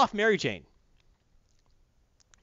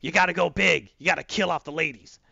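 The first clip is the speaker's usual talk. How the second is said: mild J J impression; 3 dB louder than usual. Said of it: "But J J said".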